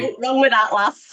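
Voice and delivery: put-on playful Northern English accent. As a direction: say it like a cheeky Northern lass. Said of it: "I do start talking in a northern accent".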